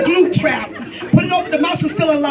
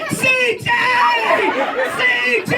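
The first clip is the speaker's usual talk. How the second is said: high, panicked calling out; mock panic; 9 semitones higher, much faster than usual. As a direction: imitate a panicked mother calling her son. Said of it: "I'm panicking".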